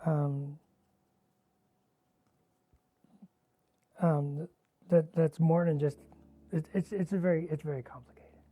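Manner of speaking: talking around a stick in the mouth. Real, not acted. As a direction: speak with a brush held in the teeth. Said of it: "you're very good at talking with a stick in your mouth".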